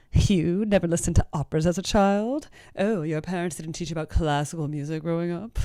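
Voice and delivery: snooty, condescending mock voice; elitist. Mocking a snob to a fan who didn't grow up with opera. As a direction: look down on them, a put-on snob. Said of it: "be all elitist about it".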